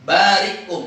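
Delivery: "barikum" with a short catch after "ri"; hamzah sukun. Shown as a demonstration. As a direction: stop briefly before the "kum" of "barikum". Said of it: "dia tidak membaca". ("barikum" dengan hamzah mati setelah ri)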